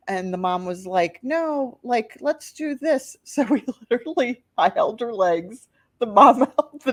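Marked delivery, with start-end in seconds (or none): 1.2-3.2 determined mom. Retold or imitated. Voicing the mom's decision.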